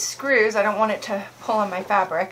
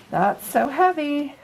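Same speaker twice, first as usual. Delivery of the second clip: higher and slow, hamming up the weight; groaning mock complaint about the weight; mock strain; 6 semitones higher, slower than usual. Real, not acted. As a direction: drag it out like it's heavy to hold.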